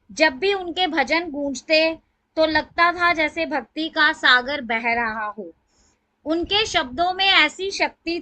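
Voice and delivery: measured reading with phrase-by-phrase pauses; formal tribute recital. Acted. Devotee reading her written lines to the satsang, formal recital.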